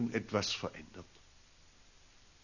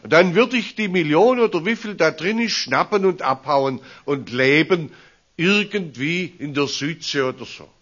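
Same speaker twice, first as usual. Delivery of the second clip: loud, high, amused daydream; laughing fantasy; 4 semitones higher, 6 dB louder than usual. Real, not acted. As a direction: play it as a cheeky joke. Playful bank heist fantasy. (laut und lachend, verschmitzt)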